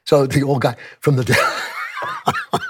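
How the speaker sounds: breaking into laughter mid-sentence; laughing. Real, not acted. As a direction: laugh through the words. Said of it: "laughing at himself".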